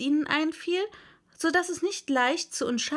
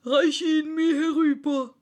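loud, higher-pitched command; Dodo; 5 semitones higher, 6 dB louder than usual. A narrator's reading. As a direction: order it over with self-importance. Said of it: "versetzte der Dodo".

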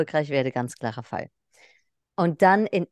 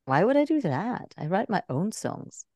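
offended; 2 semitones higher, 3 dB quieter than usual. Retold or imitated. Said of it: "Das war so ein bisschen beleidigt".

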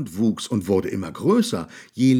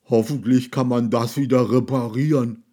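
sobbing; 2 semitones higher, 5 dB louder than usual. A narrator's reading. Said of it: "schluchzte Mupf".

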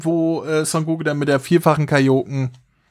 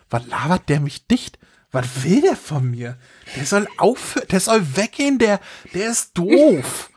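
put-on childish whiny voice. Goku's childish confused reaction.

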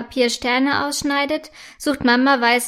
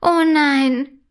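sympathetic; 3 semitones higher, 3 dB louder, much slower than usual. A narrator's reading. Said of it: "sagt Friederike mitfühlend".

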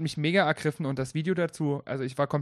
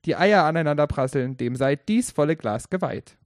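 drinking toast; 4 dB louder than usual. Shown as a demonstration. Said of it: "Ich will nochmal diesen Trinkspruch anbringen".

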